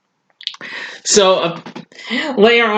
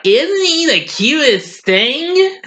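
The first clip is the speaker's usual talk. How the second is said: put-on swooning girl; 10 semitones higher, slower than usual. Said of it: "And Sally's like".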